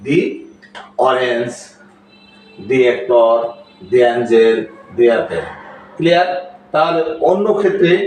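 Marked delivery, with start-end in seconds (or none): 0.1-5.5 "the" pronounced dee before each vowel word; long ee vowel in "the". Shown as a demonstration. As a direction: model THE as dee, example by example. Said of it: "এর উচ্চারণ করতে হবে আমাদের দি".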